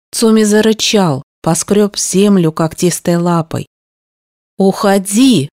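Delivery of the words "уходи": mildly raised, emphatic order to leave; a touch more forceful dismissal; firmer repeated command. A narrator's reading. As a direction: press harder on УХОДИ, without shouting. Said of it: "громче повторила я".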